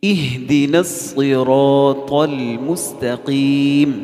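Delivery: slow chanted Quran recitation. Shown as a demonstration. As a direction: chant each word slowly. (آہستہ ترتیل سے تلاوت)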